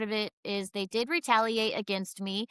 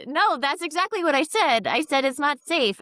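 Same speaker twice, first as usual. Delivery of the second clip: firm, higher and louder insistence; defiant retort; 6 semitones higher, 4 dB louder than usual. Retold or imitated. Nurse retelling how she defied her boss, firm and raised. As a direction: stand your ground, no apology.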